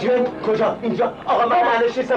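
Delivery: high, rising alarm; panicked at the thought of a jinn; frightened. Acted. Master hears of a jinn.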